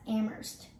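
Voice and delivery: Amherst as AM-urst; local pronunciation. Shown as a demonstration. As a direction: drop the h in Amherst. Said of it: "this one is pronounced as".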